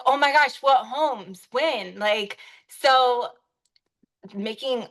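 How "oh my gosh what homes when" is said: eager client. Retold or imitated. Agent voicing a lead thrilled by a tour, excited. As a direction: gush like a thrilled buyer.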